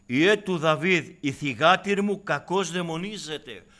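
put-on a mother crying out for her child; desperate shout. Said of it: "Φωνάζει στον Κύριο". (απελπισμένη φωνή μάνας, δυνατά και αργά)

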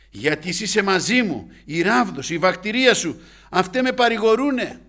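high, very loud psalm proclamation; full-force preaching. Acted. Preacher declaring David's psalm to the church, full-force preaching. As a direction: cry the verse out phrase by phrase.

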